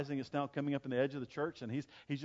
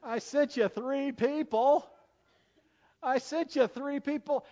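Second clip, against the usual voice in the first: God's rebuke; 8 semitones higher, slower than usual. Retold or imitated. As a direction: repeat it three times, each one bigger. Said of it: "And God said to him".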